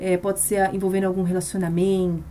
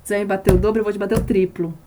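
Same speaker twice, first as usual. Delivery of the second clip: louder defiant challenge to evil; loud spiritual battle cry; 4 dB louder, faster than usual. Retold or imitated. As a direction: stand up and hit back with your voice. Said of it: "sempre falo, né, pro mal".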